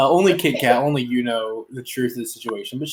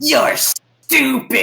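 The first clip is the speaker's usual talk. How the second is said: very slow, louder, higher sneer; snake insult; 11 semitones higher, 5 dB louder, much slower than usual. Acted. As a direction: spit out the insult slowly to her face. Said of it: "and he's like".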